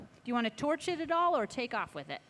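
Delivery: talking through a face mask; muffled voice behind a mask. Real, not acted. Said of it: "hard to hear me through the mask".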